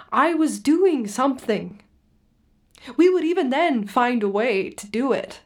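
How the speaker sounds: lifted pitch, pressing the point; insistent recollection. Acted. Refugee telling his therapist of Syria, insistent. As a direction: recall it with rising conviction.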